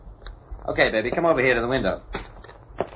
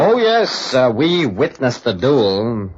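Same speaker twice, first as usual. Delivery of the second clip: sarcastic; much slower than usual. Acted. Larry mocks the word duel.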